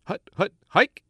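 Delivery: shouted hut hut hike at the line; quarterback calling cadence. Acted. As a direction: bark the snap count like a quarterback. Podcast opens with football call.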